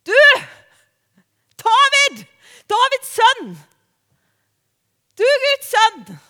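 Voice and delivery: high, loud cry for attention; acted shouting over a noisy crowd; full shout. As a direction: call out at full voice to someone far off. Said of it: "og så roper han".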